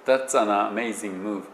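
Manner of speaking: That's an amazing move said slowly, each sound turned into a kana syllable; That's an amazing move spelt out as Japanese syllables; all in hiragana. Shown as a demonstration. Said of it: "ひらがななんですよね、全部ね". (全部ひらがなの発音で)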